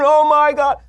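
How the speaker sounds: high mock gasp of horror; hammed-up horror shriek. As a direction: squeal it like a scared movie victim.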